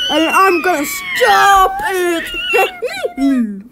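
slow determined shout. Acted. Character vowing to stop the noise, slow shout. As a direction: vow it slowly.

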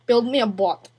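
put-on Russian accent. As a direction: play a Russian making demands.

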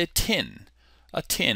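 lightly put-on British accent; soft British imitation. Shown as a demonstration. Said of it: "give you my British accent".

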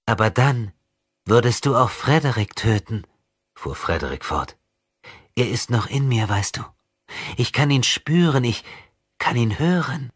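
put-on a demon in a child's body toying with his enemy; possessed boy taunting. Possessed boy mocking André's rescue, sinister.

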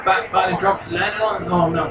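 low, hushed worry; quiet dread. Real, not acted. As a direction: say it softly, fearing what comes next. Dreading the next move.

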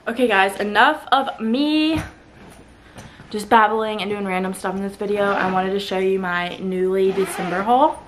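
talking around a cough drop; words around a lozenge; cough drop in mouth. Real, not acted. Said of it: "I have a cough drop in my mouth".

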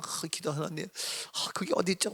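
hushed, half-whispered plea to God; muttered prayer while searching the Bible. Retold or imitated. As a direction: breathe a quick desperate prayer under your breath. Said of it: "막 이러는데".

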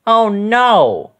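lightly voiced panic; mild cry of dismay. A narrator's reading. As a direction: Grover upset, understated. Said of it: "cried Grover".

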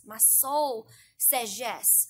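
very slow, stretched prayerful yes; drawn-out prayer. Shown as a demonstration. Speaker lingering over her yes to God, very slow. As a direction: linger on every word of "My soul says yes". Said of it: "we all have to come to that point where we say".

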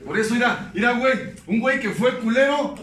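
high, loud, hammering preacher's rant; preaching at full force. Acted. Speaker at the tribune bellowing orders at newcomers. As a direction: pound the room with every "a ver".

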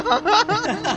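high, loud burst of laughter. Real, not acted. Joking about bans in chat, loud laugh.

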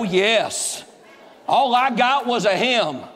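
healed woman. Acted. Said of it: "maybe she said".

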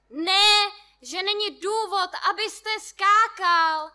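loud, slow shout. A narrator's reading. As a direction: spell it out loudly upward. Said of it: "křičím". (hlasité pomalé volání)

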